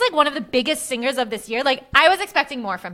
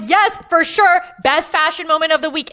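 retold gushing; 3 semitones higher, 4 dB louder than usual. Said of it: "I'm like".

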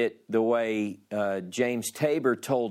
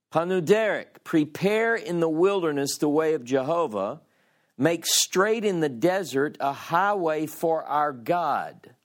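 measured, slightly raised proclaiming read; scripture reading; 3 semitones higher than usual. Acted. Teacher reading Isaiah to the class, in a proclaiming tone. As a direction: read it like the prophet announcing comfort. Reads the voice crying out.

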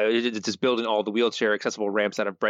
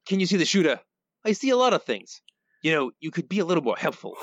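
mob boss voice; 6 semitones higher than usual. Acted. Voicing Fat Tony's questioning.

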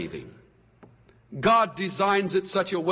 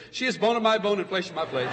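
dry recitation; faster than usual. Retold or imitated. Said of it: "I don't think Adam stood there and says".

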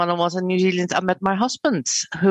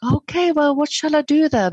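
deflated; 8 semitones higher, 3 dB louder than usual. Retold or imitated. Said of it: "It's like".

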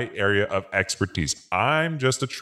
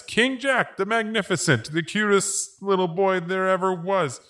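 high strained title; 9 semitones higher than usual. Acted. Forced to say title properly.

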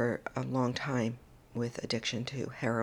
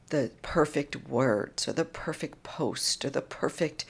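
slow, emotional, half-whispered plea; fighting back tears while urging them on; real emotion. Real, not acted. Urging listeners to act, choked with real emotion. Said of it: "I'm getting very emotional right now".

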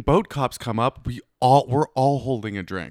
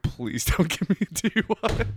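high, thin begging; mock silent pleading; 7 semitones higher than usual. Boater inwardly begging the boat cop, mock pleading. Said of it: "In my mind, I'm like".

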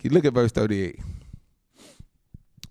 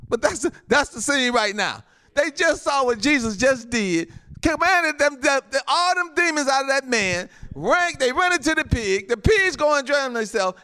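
high, driving pulpit retelling; fervent preaching; 8 semitones higher than usual. Real, not acted. Preacher retells the demons leaving the man, fervent preaching. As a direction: pile up the events with rising fervor. Preacher recounts miracle at full force.

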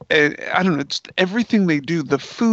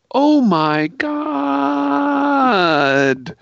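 mild mock yell; 11 semitones higher, 3 dB louder, much slower than usual. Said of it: "he yells".

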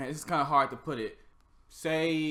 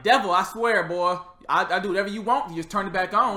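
mock pleading; 4 semitones higher, 8 dB louder than usual. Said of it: "they'll be like".

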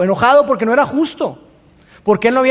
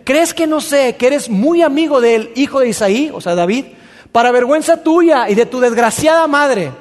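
angry king; 4 semitones higher than usual. Acted. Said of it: "Saúl está muy molesto".

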